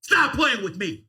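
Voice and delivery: slow, heated shout; angry shout. Real, not acted. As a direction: shout it down slowly. Argument peaks, shout measured.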